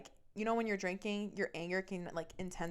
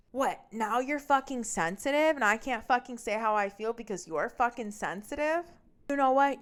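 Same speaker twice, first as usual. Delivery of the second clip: raised, punchy retold rant; angry yelling; 3 semitones higher, 4 dB louder than usual. Boyfriend blowing up at girlfriend outside his house, raised angry voice. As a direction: imitate him blowing up in an argument.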